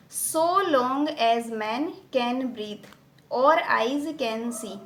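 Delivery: slow, measured reading of a verse line; deliberate recitation with long vowels; whole verse line. Shown as a demonstration. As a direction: recite the full line slowly in one sweep. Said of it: "ये पूरी एक line है".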